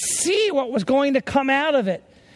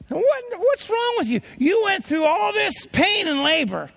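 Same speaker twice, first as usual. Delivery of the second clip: mock outraged shout; 9 semitones higher than usual. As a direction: yell it like a playful scolding. Preacher re-enacts shouting at mothers.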